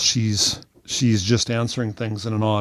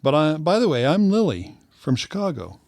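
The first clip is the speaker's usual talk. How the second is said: higher, lightly put-on introduction; Lily; 6 semitones higher than usual. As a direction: introduce yourself as a chirpy texting stranger. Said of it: "And she goes".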